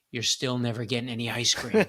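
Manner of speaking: laughing through the comeback; chuckling as he lands the line; laughing punchline. Real, not acted. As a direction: let the laugh spill into the last words. Punchline of a rude-customer story.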